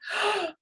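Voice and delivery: a sharp, audible breath drawn in to calm down; deep breath in. Shown as a demonstration. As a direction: gasp in air before the mantra. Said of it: "Then take a deep breath".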